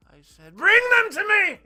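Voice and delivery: hammed-up villain yelling without warning; mock sudden outburst. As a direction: explode out of nowhere, screaming. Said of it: "he'll get upset and be like".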